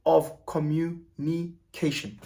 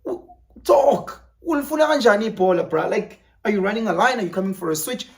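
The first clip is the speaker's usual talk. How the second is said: higher, louder, fast urgent calls; frustrated yelling teammate; 5 semitones higher, 4 dB louder than usual. Retold or imitated. Yelling at a teammate during a football game, loud and high. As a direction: shout at a silent teammate in the game. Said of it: "I'm like".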